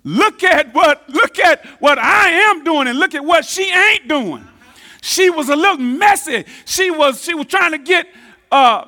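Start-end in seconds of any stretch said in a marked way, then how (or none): 0.0-4.5 voicing Martha complaining. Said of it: "not proper English".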